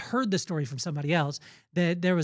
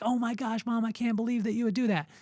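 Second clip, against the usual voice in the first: higher-pitched, lightly acted dismay; appalled disbelief; 5 semitones higher than usual. Kid to mom who tainted the cookies, appalled disbelief. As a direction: imitate an appalled kid protesting.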